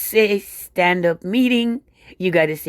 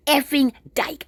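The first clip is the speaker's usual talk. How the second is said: slow, higher sneering slur; sneering contempt; 6 semitones higher, slower than usual. Retold or imitated. Stranger insulting her for ignoring him, slow higher sneer. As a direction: drag the words out with open disdain. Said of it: "he said it with such contempt".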